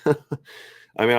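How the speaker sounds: stifled laugh breaking through; trying not to crack up; holding back a laugh. Real, not acted. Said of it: "I'm trying not to laugh".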